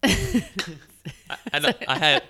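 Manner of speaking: talking while crunching ice; chewing ice. Real, not acted. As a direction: mouth full of ice. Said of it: "sorry, I'm chewing ice".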